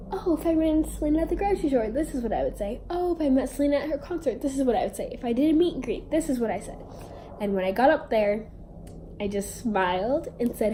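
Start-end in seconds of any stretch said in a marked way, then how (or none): 0.1-6.8 rehearsed fan lines. Retold or imitated. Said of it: "I had planned out".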